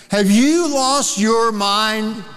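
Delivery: slow, gentle but pointed question; arm-around-the-shoulder reality check, slowed down; incredulous rebuke. Retold or imitated. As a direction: ask it like a friend shaking sense into you. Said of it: "Put his arm around him and said".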